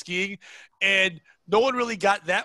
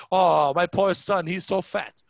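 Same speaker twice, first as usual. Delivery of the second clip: slow, exaggerated pitying coo; mock pity; 3 dB louder, slower than usual. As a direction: lay the sympathy on thick. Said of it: "said it with pride".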